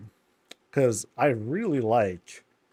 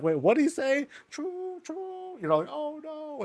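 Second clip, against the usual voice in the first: very high, soft falsetto; squeaky worried riders; 4 dB quieter than usual. Pretend. Riders fretting after the threat, high and soft. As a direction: panicky little voices. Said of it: "they're all like".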